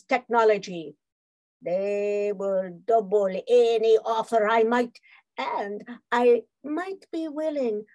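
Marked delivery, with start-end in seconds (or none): 5.4-7.8 seductive purr. Acted. Spy seduces Rick with incentives.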